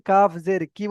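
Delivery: কাফ জের কি, no elongation at the end; short KI, no stretch. Shown as a demonstration. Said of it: "কোনো টান দিলাম না".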